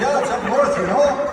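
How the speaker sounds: put-on high, loud, laughing Minnesota accent; mock the northern lilt. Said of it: "He said".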